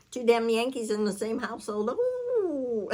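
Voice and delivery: laughing through the words; laughing about the two Yankees. Real, not acted. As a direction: chuckle it out, amused. Joking about her household.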